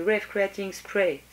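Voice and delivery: French-accented English, drawn out. Real, not acted. Vlogger naming a hair spray to viewers, French-accented English. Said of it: "attention mon accent anglais".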